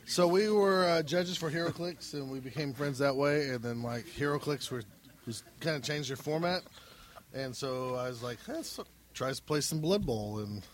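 holding it together to sound sober; trying to sound sober. Real, not acted. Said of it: "I love how hard he's trying to act sober right now".

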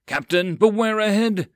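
high, loud warning roar; roaring from above. Acted. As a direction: warn from the mast. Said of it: "a lookout roared from above".

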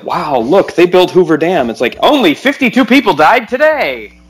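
lightly voiced old newsreel narrator; cheerful mock newsreel pitch; newsreel announcer. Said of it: "nineteen thirties newsreel".

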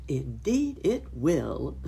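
slow, chuckling agreement; laughing. Acted. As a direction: chuckle it out contentedly. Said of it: "laughed Uncle Wiggily".

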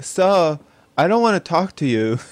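put-on lisping child speech; says w for r. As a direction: speak like a kid with a speech impediment. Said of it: "I'd still have my speech impediment".

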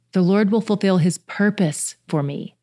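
"will" pushed up over the rest; stress on will. Shown as a demonstration. Another reading of the verse, stressing will. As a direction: insist on "will". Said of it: "put the emphasis on a different section each time".

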